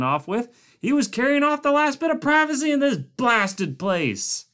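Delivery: high, aggrieved grumble; good-natured grouch. A narrator's reading. Cook mourning the camp's last privacy, grouchy. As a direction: moan about the lost privacy.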